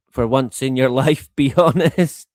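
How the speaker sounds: acted appeal broken by a laugh; half-laughing mock interrogation; laughing plea. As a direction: plead with a chuckle, rising at the end.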